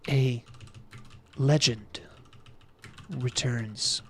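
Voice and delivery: each word set apart with pauses; slow, spaced out. Shown as a demonstration. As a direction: drag it out word by word. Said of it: "We just want her to be a little bit slower".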